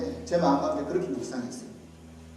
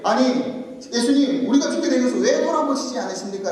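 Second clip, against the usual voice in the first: higher, mock scolding of Jesus; reproachful demand; 6 semitones higher, 5 dB louder than usual. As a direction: disciples taking their master to task. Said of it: "라고 꾸짖는 거죠". (꾸짖듯 높여 따져 묻기)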